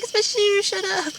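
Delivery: mock mom snapping.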